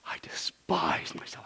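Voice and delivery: soft, slow, whispery moan; moaning in despair. Acted. Preacher imagines Job's humbled answer, despairing moan. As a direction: groan it slowly in acted despair. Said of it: "did Job literally moan in despair?".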